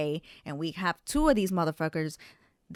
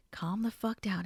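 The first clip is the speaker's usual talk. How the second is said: quiet self-talk; 6 dB quieter than usual. Retold or imitated. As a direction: say it softly, reining yourself in. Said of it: "this is how I had to talk to myself".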